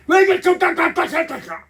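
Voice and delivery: high, loud peevish scolding; husband snapping at his wife over the phone; mock irritated nagging. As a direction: jab each 딱 at her like a nag.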